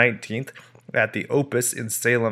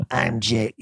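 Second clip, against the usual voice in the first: Ghostface voice. Shown as a demonstration. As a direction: growl it like the Scream caller. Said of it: "I'm trying to do the Ghostface voice".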